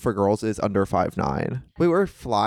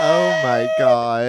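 awed excitement; 5 dB louder, much slower than usual. Real, not acted. Reacting to mock transition.

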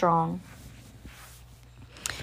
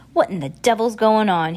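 louder, rough gunman's question; an armed man startled by the girl; gruff demand; 3 semitones higher, 5 dB louder than usual. A narrator's reading. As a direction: bark it out in surprise. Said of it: "he asks".

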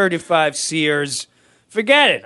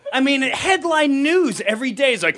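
high, breaking with laughter; crying laughing; 10 semitones higher than usual. Real, not acted. Comic telling the Sears story, crying with laughter. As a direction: laugh so hard the words barely come.

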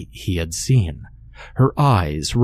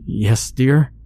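eerie double's reply; 5 semitones higher than usual. A narrator's reading. Double Harry answering.

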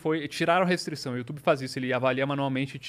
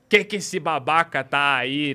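slow, loud mock grumpy uncle; grumpy old man voice; 7 dB louder, slower than usual. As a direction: growl it like an angry old man.

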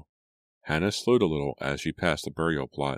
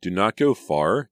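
raised, carrying call; calling after them; 5 semitones higher, 7 dB louder than usual. A narrator's reading. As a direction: call out louder and higher, as if after someone walking off. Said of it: "Julia called after them".

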